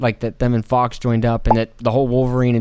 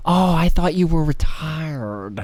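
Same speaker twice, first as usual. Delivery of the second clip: quoting Blade; 3 semitones higher, slower than usual. Retold or imitated. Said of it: "his first line in it when he goes".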